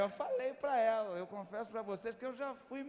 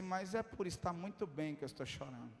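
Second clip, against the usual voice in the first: low, hushed retold confession; subdued reply; 5 semitones lower, 6 dB quieter than usual. Tearful preacher reassuring the attendant, hushed and subdued. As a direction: say it softly, low in the voice. Retells his tearful answer.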